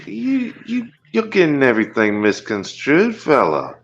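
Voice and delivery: put-on Liverpool-ish Aussie accent. Guest protests being misread, in Liverpool-ish fake Aussie. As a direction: fake Australian accent slipping toward Liverpool. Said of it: "You sound like fucking one of those sixties Liverpool singers".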